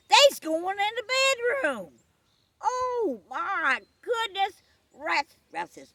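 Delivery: slow, high, loud wail of shock; aghast yell. Acted. Ralph watching the couple enter the bedroom, aghast yell. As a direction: stretch out the horrified holler.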